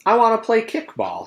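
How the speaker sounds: put-on high, eager kid voice; whiny little boy begging; lightly voiced eager child; Ron pleading.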